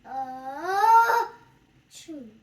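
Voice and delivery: a posh, loud high "Oh", then the rest lightly; fancy voice. Retold or imitated. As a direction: put on airs for the first word. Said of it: "a fancy, like".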